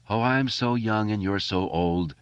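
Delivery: light crooner impression; a kid crooning a fifties love song to his friends; imitation of a singer. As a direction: croon it like a fifties teen idol. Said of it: "doing an eerily accurate imitation of a singer".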